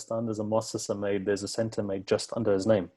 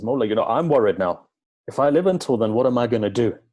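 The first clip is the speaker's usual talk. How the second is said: louder, anxious pleading to his master; worried plea; 5 dB louder than usual. Acted. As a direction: press the question as a frightened follower. Worried companion pleads with Imam.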